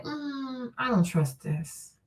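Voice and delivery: sceptical. Retold or imitated. Her inner sceptical reaction.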